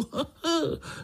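high, amused burst of laughter; hearty laugh. Acted. Uncle laughing at little Pája's wish with amused laughter. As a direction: laugh it off at the boy. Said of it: "smál se strýček".

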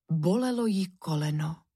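ordinary delivery, nothing marked

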